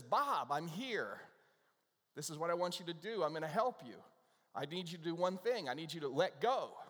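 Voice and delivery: lightly acted God giving firm instructions. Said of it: "God speaks to him and says".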